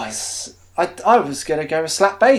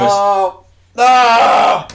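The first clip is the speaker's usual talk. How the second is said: put-on higher, louder childish wail; whiny pupil protest; 5 semitones higher, 8 dB louder than usual. Pupil sent to head's office.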